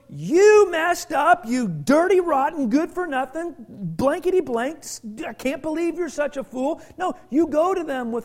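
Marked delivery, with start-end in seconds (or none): 0.1-6.8 mock scolding. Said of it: "you don't go to a person and go".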